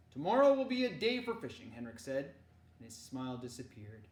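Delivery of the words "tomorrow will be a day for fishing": loud, meaningful uncle's voice; grave uncle. Acted. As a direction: say it with hidden weight. Henrik, serious code.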